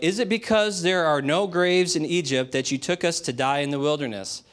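high-pitched whiny complaining; a touch of a nagging, whiny crowd; whining complaint. Retold or imitated. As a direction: whine it like ungrateful grumblers. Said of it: "they're whining now".

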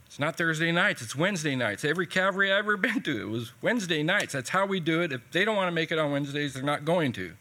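mildly indignant, insistent retort in rushed bursts; acted-out frustrated insistence; indignant protest. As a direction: imitate an exasperated pastor, quickening as it goes. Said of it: "like I just poured salt in a wound".

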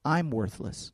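very soft, hushed self-judgment; inner voice. Acted. You hear your own voice in your mind, hushed inner voice. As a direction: let it drop to a private thought. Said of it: "you hear your own voice say".

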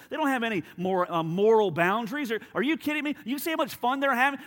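high-pitched, worked-up scoffing; incredulous rant. Acted. Devil tempting with friends' looser boundaries, incredulous and worked up. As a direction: pile up the objections, pitched high and exasperated. Devil rants against purity.

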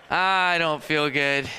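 fake sick moan. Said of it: "And he goes".

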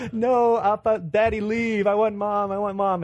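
high-pitched imitation of a demanding toddler; toddler tantrum. Dad voicing daughter pushing him away, high tantrum voice. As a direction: whine it insistently like a small child. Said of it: "going crazy in the middle".

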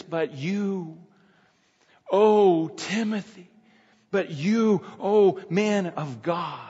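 slow, drawn-out "oh" and "you", each set apart; weighty address, pausing after a long "you"; exclamatory, urgent reading. Shown as a demonstration. Preacher showing how Paul's address reads, exclamatory and urgent. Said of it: "So it reads like this".

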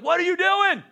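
wife's voice. Retold or imitated. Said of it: "my wife's like".

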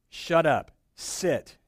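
loud sharp command like to a dog; commanding a storm. Retold or imitated. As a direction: snap it out like ordering a naughty puppy. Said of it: "And he's like".

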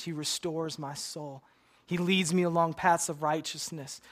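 bold, ringing recital of the psalm; confident, polished delivery of Psalm 23; actor's grand recitation. Retold or imitated. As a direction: proclaim it like a stage actor. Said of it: "a lot better than I just did".

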